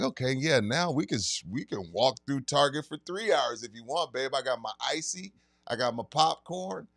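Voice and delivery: breezy, carefree shopping-trip voice; mellow stoner. Retold or imitated. Mimicking his old mellow high to his girlfriend, laid-back and agreeable. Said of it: "just feeling mellow".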